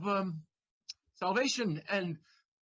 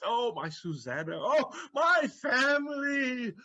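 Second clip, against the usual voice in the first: calling out, louder and higher; joyful cry; 5 semitones higher, 3 dB louder than usual. Acted. Figaro cries out joyfully to his family. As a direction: cry it out in happiness.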